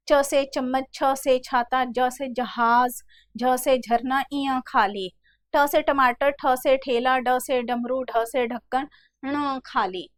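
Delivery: measured letter-and-word list; retold schoolroom recitation. Teacher recalling school alphabet lessons, schoolroom recitation. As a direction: chant through the alphabet primer evenly. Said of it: "पढ़ाते समय कहते थे".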